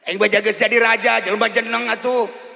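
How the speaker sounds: raja nyentak, sora tarik; raja ambek. Acted. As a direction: ngambek bari ngagulkeun diri. King rebukes Bahlul. (raja ambek ka Bahlul, nyentak tarik)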